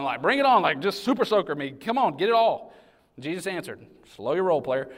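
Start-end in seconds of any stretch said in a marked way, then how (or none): 0.2-2.7 high, keen bring it on; eager Peter paraphrase. Retold or imitated. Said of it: "He's basically saying".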